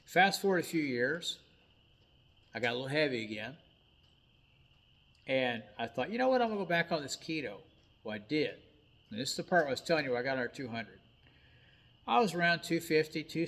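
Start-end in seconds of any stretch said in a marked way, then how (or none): 6.1-7.6 high, bright burst of decision; sudden resolve. Retold or imitated. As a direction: snap into a new plan. Sudden decision, retold thought.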